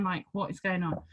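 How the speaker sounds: usual speaking voice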